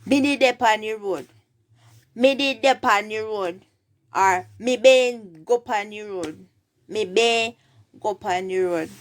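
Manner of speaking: Jamaican Patois teaching demo. Shown as a demonstration. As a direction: model it firmly in Jamaican Patois. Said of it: "say that in patois".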